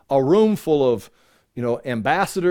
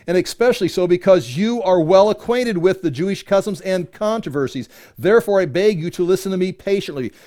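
higher, emphatic public reading; scripture reading; 4 semitones higher, 3 dB louder than usual. Acted. Paul addressing King Agrippa in his defense, emphatic scripture reading. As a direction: proclaim it like a formal address. Reads Paul's plea aloud.

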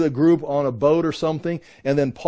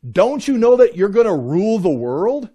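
incredulous Paul; 4 semitones higher than usual. Retold or imitated. Paul scolding believers who sue each other, incredulous and raised. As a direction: stop them short, astonished. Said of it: "And Paul's saying".

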